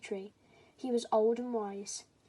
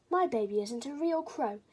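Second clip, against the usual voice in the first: rising to a high, loud wail; panicked parent crying out; despairing cry; 6 semitones higher, 7 dB louder than usual. Acted. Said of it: "he cried".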